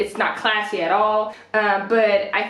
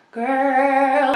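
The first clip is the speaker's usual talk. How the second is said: exasperated; 2 semitones higher than usual. Retold or imitated. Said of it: "I'm like".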